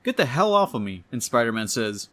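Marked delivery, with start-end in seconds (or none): 0.0-1.0 higher-pitched, mildly annoyed demand; irritated outburst. Acted. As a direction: push them away with your voice, a touch exasperated. Acted quarrel after a fall.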